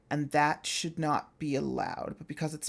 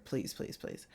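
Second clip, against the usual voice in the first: whispered pleading; 9 dB quieter than usual. Retold or imitated. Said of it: "she'll just be like".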